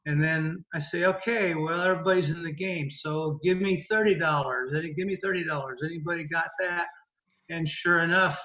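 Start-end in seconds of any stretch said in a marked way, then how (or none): 1.1-6.9 fast auctioneer patter. Shown as a demonstration. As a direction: push the bids up fast like an auctioneer. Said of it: "like an auctioneer".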